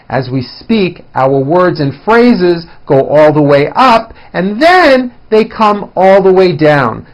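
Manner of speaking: big melodic rises and falls on "up" and "down"; musical intonation. Shown as a demonstration. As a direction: let the phrases climb and come down like music. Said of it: "a good example of intonation".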